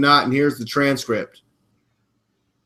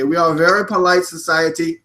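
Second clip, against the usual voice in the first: put-on Russian accent; polite mock-Russian speaker. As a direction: imitate a Russian making a point. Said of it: "I'm trying to do a Russian accent".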